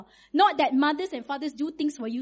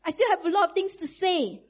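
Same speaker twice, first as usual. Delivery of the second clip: put-on wide-awake child; 6 semitones higher, 3 dB louder than usual. Daughter protests to her tired mom, high and insistent. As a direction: plead it like a child who won't sleep. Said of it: "Then she say".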